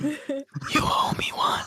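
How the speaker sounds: hushed, soft, breathy whisper. Game master voices a guardian angel speaking inside a player's head, whispering. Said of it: "a guardian angel that whispers".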